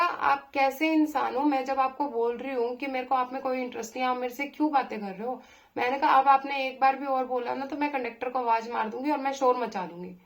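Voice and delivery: loud, exasperated warning; retold angry threat. Woman threatening to call the bus conductor, loud and exasperated. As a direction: threaten to shout for help.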